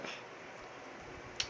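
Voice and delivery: very soft, voiceless puff of shock; mock shocked gasp. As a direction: imitate shock with a tiny breath. Retold shocked reaction.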